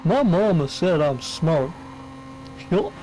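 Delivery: dim-witted American hick, high yelping chuckles, slow drawl; mock American accent. Friend mocking muscle-car lovers for laughs, exaggerated American accent. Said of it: "I can do an American accent if you want".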